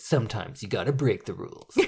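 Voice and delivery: low, gruff movie hero line; action hero voice. Retold or imitated. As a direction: deliver it like a blockbuster hero. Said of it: "I like this action hero voice you're doing".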